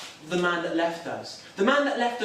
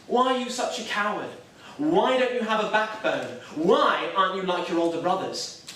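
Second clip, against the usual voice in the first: retold scolding; 2 semitones higher than usual. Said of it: "she starts screaming at me".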